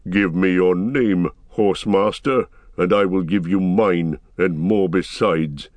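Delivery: lightly voiced proud dwarf, slowing at the end; defiant dwarf. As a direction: stand your ground, measured. Gimli defiantly answers the rider.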